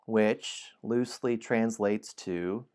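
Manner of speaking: slow, dramatic storybook reading; story narration. A narrator's reading. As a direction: draw the listener into the dungeon. Narrator aside.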